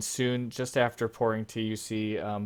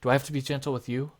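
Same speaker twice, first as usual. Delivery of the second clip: put-on a kid blurting out his question; twelve-year-old boy; 3 semitones higher, 3 dB louder, faster than usual. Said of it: "He says".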